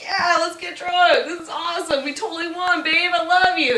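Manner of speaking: mock-gush like a thrilled drunk girlfriend; giddy celebration, lightly hammed-up; super stoked. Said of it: "super stoked on it".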